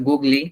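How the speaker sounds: Google misread as "গুগলি", goog-lee; naive misreading. Shown as a demonstration. Teacher shows what spelling could suggest, naive misreading of "গুগলি". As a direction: say "গুগলি" with an added final i. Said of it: "এটা উচ্চারণ করা যেত না?".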